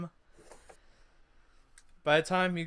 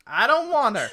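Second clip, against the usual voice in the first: laughing loudly through the words; blurting it out through a laugh; 6 semitones higher, 6 dB louder than usual. Real, not acted. Refusing the wife, laughing.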